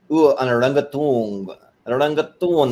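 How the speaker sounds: "orangutan" drawn out slowly, ending in "toon"; orangutan mispronounced. Retold or imitated. Serge fumbles the animal's name, "orangutan" ending in "toon". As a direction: stretch "orangutan" into "oran-goo-toon" in a foreign accent. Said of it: "you can't say that either".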